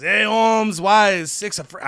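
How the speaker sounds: half-hearted mock Mexican accent; badly faked Mexican accent, soon abandoned; attempted Mexican accent. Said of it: "I can't do a Mexican accent".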